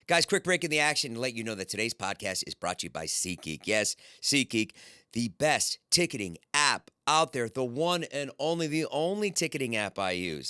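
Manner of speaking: measured, emphatic sponsor pitch; host-read ad with deliberate emphasis; podcast ad read. Acted. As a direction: sell it word by word. Reads sponsor ad.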